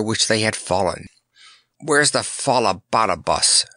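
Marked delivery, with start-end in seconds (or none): none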